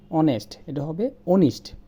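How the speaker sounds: "অনেস্ট" said onest, then corrected to "অনিস্ট" with a silent h; correct pronunciation. Shown as a demonstration. The teacher corrects onest to onist. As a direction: contrast "অনেস্ট" with "অনিস্ট", ending in -ist. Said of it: "আমরা বলি".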